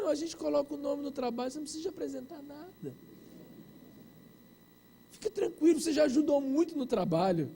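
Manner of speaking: imitated soothing classmates, hushed; mock reassuring classmates. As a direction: gently let him off the hook. Classmates gently excusing him.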